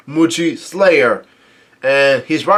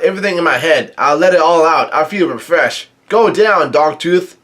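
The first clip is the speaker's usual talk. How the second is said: mock yell; 2 semitones higher than usual. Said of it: "And Luffy yells out".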